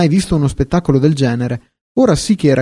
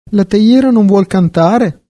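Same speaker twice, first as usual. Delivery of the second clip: higher, louder, drawn-out indignant question; indignant outburst; 6 semitones higher, 5 dB louder, slower than usual. A narrator's reading. Quill pen scoffs at the teapot who won't sing, indignant outburst. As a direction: blurt it out slowly, raised in pitch and volume. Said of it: "sbottò lei".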